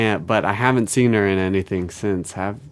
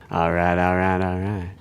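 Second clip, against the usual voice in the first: Matthew McConaughey. Retold or imitated. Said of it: "Matthew McConaughey's voice".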